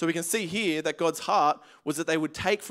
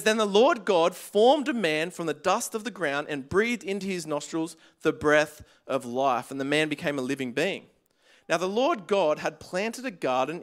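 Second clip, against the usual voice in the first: scripture reading. Acted. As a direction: read it out deliberately to the church. Reads scripture to congregation.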